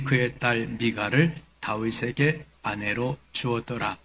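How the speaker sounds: measured, solemn Bible reading; scripture reading. Acted. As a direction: read the passage out formally to a congregation. Reads scripture aloud to congregation.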